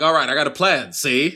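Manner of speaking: lightly voiced old-movie schemer; a touch of vintage wiseguy patter; old-time white guy. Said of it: "People used to talk like that".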